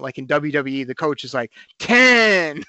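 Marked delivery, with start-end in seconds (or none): 1.8-2.6 high, loud wrestling referee count. Retold or imitated. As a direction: count it out like a WWE ref. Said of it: "doing a referee count".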